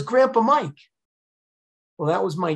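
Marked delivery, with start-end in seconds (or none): 0.0-0.8 high bright exclamation; son's voice. Retold or imitated. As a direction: say it pitched up, like a revelation. Son voiced answering.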